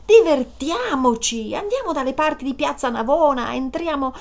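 high, coaxing and gleeful; excited. Acted. Woman coaxing Peter into a joyride, excited. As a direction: stretch out trionfanti in triumph. Urging him to have fun.

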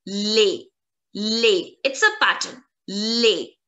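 les said like lay, no s; les spoken as le with a silent s; model pronunciation. Shown as a demonstration. Teacher modelling les for students. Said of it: "the pronunciation of L E S".

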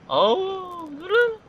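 sudden high-pitched yell to stop. Real, not acted. Gamer yelling at the taxi to stop, high squeal. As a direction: squeal it at a leaving car.

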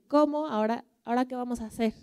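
shocked and furious at her new nose; outraged wife. Acted. Esposa más enojada con su nariz. (esposa indignada, aguda y rápida)

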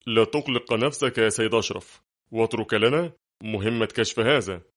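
usual speaking voice

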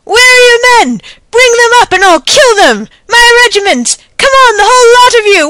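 high, loud battle taunts; shouting. A narrator's reading. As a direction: bellow challenges at the fallen officer. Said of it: "to shout".

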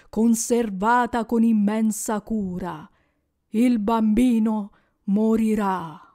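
a lightly voiced grave spirit, measured and heavy; solemn ghost. Ghost foretells the child's death to Scrooge, grave. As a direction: pronounce the child's fate gravely.

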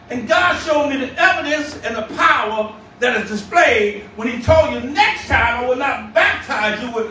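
emphatic sermon delivery with punched key words; driving pulpit cadence; fervent preaching. Real, not acted. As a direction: preach it to the congregation with conviction. Preaches to congregation.

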